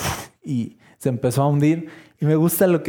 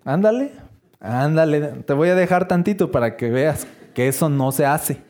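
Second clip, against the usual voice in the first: mock scolding; 2 semitones higher than usual. Jesus pretending to let Peter sink, hammed-up teasing scold. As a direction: playfully scold like a stern parent.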